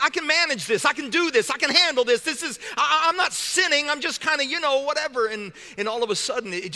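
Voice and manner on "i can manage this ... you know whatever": higher-pitched string of excuses; insistent, pitched-up self-excusing; self-justifying. Acted. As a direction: brush it off in a hurried inner argument. Voicing someone excusing their own sin.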